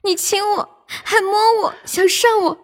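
coquettish. Pretend. Co-host taking over the forfeit reading, coquettish. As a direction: chant it in short flirty phrases. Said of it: "骚一点".

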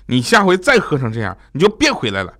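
mildly cross wife imitation; angry. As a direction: give the husband a firm mock warning. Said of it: "当时米姐很生气啊". (模仿妻子略带生气地警告)

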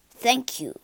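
gruff. Acted. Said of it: "he said gruffly".

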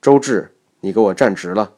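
"周志" and "直" begun with the zh of vision; English zh substitution. Shown as a demonstration. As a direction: practice sentence with a buzzed zh in "周志" and "直". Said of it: "把这句话说的听起来与老外讲中". (用英语浊音读“周志”和“直”)

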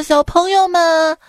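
lightly voiced foreign teacher. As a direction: mimic the foreign teacher coaxing kids.

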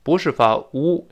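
slow, emphatic 不是发乌, stress on 乌; teacher corrects vowel mistake, slow and stressed; stressed correction. Shown as a demonstration.

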